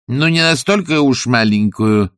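plain reading voice

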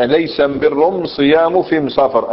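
slow Himyar "am" for every "al"; Himyar dialect. Shown as a demonstration. Teacher demonstrating the article in a hadith, slow Himyar dialect. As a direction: draw out the Himyar am-birr, am-siyam, am-safar. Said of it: "هذه أم أداة التعريف عندهم".

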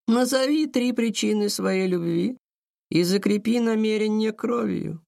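high, echoing ethereal call; otherworldly voice. A narrator's reading. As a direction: intone it like a spirit. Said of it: "незнакомым потусторонним голосом".

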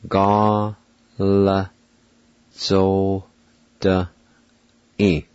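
Ga la zo de i split into separate syllables; one beat each: Ga, la, zo, de, i. Shown as a demonstration. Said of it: "It's pronounced like this".

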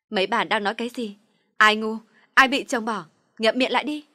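loud, fierce yelling at the gossips; furious shout. A narrator's reading. Girl yelling at two gossiping women, furious. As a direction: snap at them to shut up, full voice. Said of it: "Mặt tôi đỏ ngầu dữ tợn quay lại".

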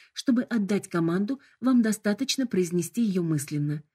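bright, formal corporate greeting; polite hologram voice. Acted. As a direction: announce it like a cheerful assistant. Hologram explains controls.

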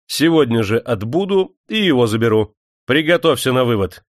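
твёрдо и громче обычного; отдать приказ строго. Acted. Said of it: "строго сказал он Черепанову". (Демидов строго приказывает Черепанову)

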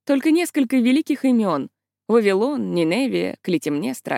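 usual speaking voice

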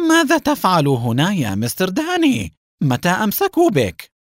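high, urgent worried questions; anxious. A narrator's reading. Haim to the freed Mr. Dani, anxious. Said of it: "وسأله حاييم بقلق".

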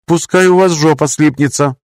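high, rude machine voice; polite robot turns nasty; old speech synthesizer. Acted. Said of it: "закончил синтезированный голос".

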